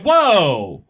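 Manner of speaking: a wide-eyed, overeager fan asking to see documents; mock eager excitement. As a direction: play the thrilled history buff, laughing through it. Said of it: "And I'm like".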